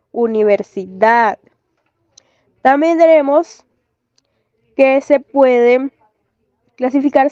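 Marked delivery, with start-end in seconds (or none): 0.1-1.4 "universidad" with DAD held and stressed; "universidad" carefully, weight at the end; stress on last syllable. Shown as a demonstration. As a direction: lean on the final DAD of "universidad". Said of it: "el acento ocupa la última sílaba".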